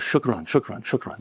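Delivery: quiet, heartfelt Arabic thanks that trails off; grateful thanks. Retold or imitated. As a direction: murmur it again and again as the last one dies away. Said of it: "over and over and over".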